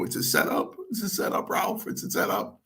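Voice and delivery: urgent mock whisper; hushed retold confiding. Telling brother Ralph the match is fixed, whispering. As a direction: whisper it like a secret that mustn't get out.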